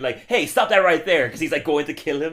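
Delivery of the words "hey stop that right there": a loud, higher cry of hey stop; mock shout. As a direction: yell it to halt him, half in fun. Activist's retold shout.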